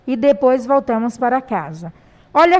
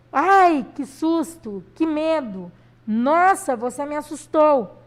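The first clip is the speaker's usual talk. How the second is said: mock fright. Shown as a demonstration. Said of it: "medo, pavor".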